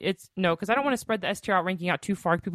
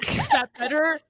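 louder into the mic; 9 semitones higher than usual. Real, not acted. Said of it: "Go around it".

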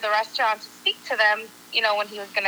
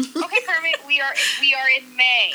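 retold, slightly exasperated reasoning; mild exasperation; 2 semitones higher than usual. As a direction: spell it out to a friend, mildly fed up. Acting out reasoning with impatient friend.

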